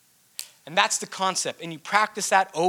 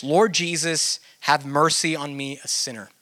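calm sincere prayer. Shown as a demonstration. Teacher demonstrating the Jesus Prayer to listeners, calm and sincere. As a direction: speak it as a simple, sincere prayer. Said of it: "maybe something like this".

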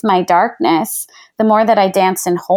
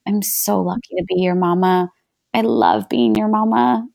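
softer, loving words at the dinner table; tender affection; 5 dB quieter than usual. Shown as a demonstration. Parent telling her child at dinner, soft and tender. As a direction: melt into it, quietly adoring. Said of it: "you turn to your child and you say".

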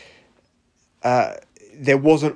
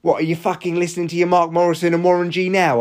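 louder, goading angry question; heated taunt; 5 semitones higher, 3 dB louder than usual. Real, not acted. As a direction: needle him, really worked up. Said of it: "got a little bit heated there".

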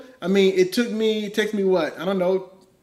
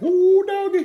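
excited; 6 dB louder than usual. Retold or imitated. Excited reaction to wife's tone.

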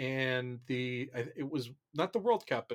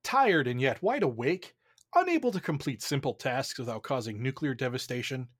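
pharmaceutical ad. Acted. Parody drug commercial read.

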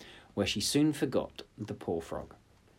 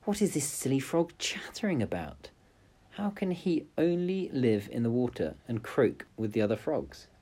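princess thinking aloud; 4 semitones higher than usual. Acted. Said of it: "to herself she thought".

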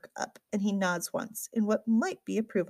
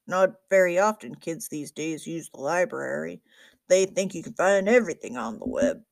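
lightly voiced grumbling old librarian; a hint of an old man griping about youngsters; grumpy old librarian; 3 semitones lower, 4 dB louder than usual.

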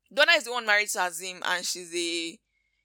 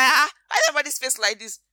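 dramatic Kiki; 4 semitones higher, 5 dB louder, faster than usual. Retold or imitated. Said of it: "And she's like".

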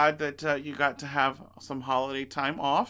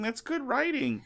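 laughing irony; 10 semitones higher than usual. Acted. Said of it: "So we were talking about writing".

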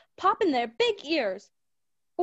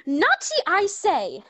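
final cry; slower than usual. Acted. Mother flinging the door open, crying out. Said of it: "a final cry of".

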